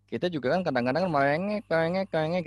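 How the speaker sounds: a playful imitation of a whining child; whiny child. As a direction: whine it like a sulky kid.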